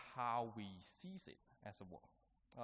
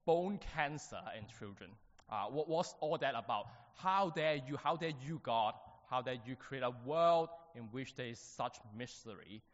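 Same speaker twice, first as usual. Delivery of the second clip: louder, rising indignation at God; fired-up outrage; 5 dB louder than usual. Retold or imitated. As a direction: demand it, voice climbing in protest. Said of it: "he was quite fired up".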